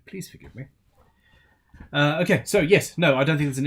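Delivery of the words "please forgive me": softer, worn-out please forgive me; tired apology. Real, not acted. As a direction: let it drop, too tired to push. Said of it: "I am tired".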